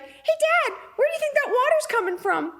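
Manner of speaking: very high squeaky pet voice; innocent dog voice. Acted. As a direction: pipe up like a clueless little dog. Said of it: "she'd be like".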